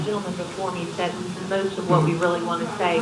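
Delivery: over a speakerphone; phone speaker. Real, not acted. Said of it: "I'll put you on speakerphone".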